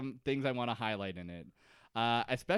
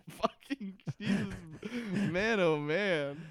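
drawn-out sigh; 7 semitones higher, 4 dB louder, slower than usual. Real, not acted. Drawn out exclamation.

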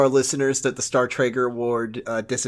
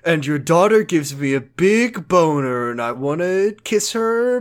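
Kyle; 4 semitones higher, slower than usual. Retold or imitated. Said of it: "Kyle was gonna talk about".

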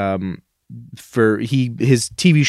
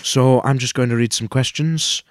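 bad Pierce impression. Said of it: "really bad impression of him".

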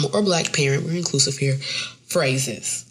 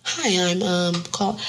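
nervous phone voice; 2 semitones higher, slower than usual. Retold or imitated. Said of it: "That's my, that's my voice".

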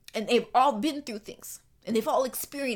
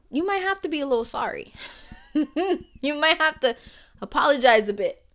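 laughing tease; 5 semitones higher, 6 dB louder than usual. Real, not acted. Laughing while teasing listeners.

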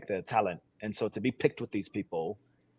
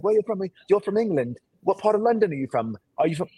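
high, louder mock curiosity; raised-pitch impression of nosy strangers; eager questioning; 9 semitones higher, 5 dB louder than usual. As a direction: imitate strangers pressing with excited questions. Imitates curious people guessing his origin.

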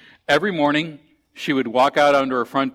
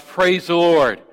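shouted praise; 5 semitones higher, slower than usual. Retold or imitated. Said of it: "and then she shouts".

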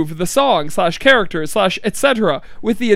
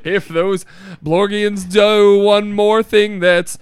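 hammed-up fantasy character; 3 semitones lower than usual. Improvised fantasy character rant.

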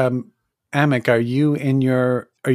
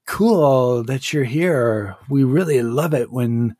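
nervous minion; 2 semitones higher, slower than usual. Acted. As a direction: play it over-friendly to an intimidating visitor. GM voices a startled minion.

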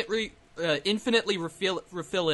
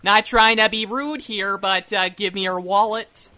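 mock polite mugger; 2 semitones higher, 6 dB louder than usual. Mock mugging in accent.

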